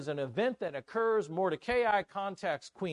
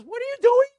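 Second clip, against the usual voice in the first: high, full-voiced outraged shout; explosive acted fury, pitched way up; furious king; 12 semitones higher, 10 dB louder than usual. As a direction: roar it as a jealous king. King acted catching Haman with wife.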